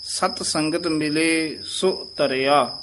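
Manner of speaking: slow, deliberate ਮਾਧਵ; slow careful recitation. Shown as a demonstration. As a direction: recite each word clearly. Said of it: "ਧਿਆਨ ਨਾਲ ਉਚਾਰਨ ਕਰਨਾ ਹੈ". (ਧਿਆਨ ਨਾਲ ਹੌਲੀ ਉਚਾਰਨ)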